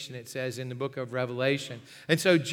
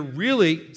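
"really" leaned on hard, louder; stress on really; 6 dB louder than usual. Retold or imitated. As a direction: punch the underlined word "really". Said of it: "see how it's underlined".

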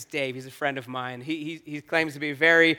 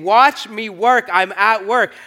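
slow God's voice; 4 semitones higher, 5 dB louder, slower than usual. Retold or imitated. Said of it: "he was saying".

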